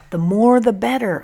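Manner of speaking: bright, loud and lifted; eager. Acted. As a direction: answer with keen enthusiasm. Eager answer to questions.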